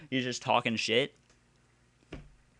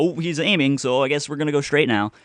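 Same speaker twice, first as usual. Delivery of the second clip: mock voice; 4 semitones higher, 5 dB louder, faster than usual. Mocking the game's logic.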